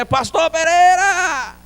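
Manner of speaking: long drawn-out yell, very high and loud; big shout. Retold or imitated. Pastor shaking the nearly deaf old man's shoulder, huge slow shout. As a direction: bellow the name to wake a deaf man. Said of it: "dei um gritão".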